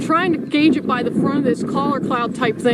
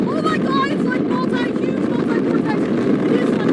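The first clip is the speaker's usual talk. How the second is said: excited; 8 semitones higher than usual. Real, not acted. Huge multi-vortex tornado in view.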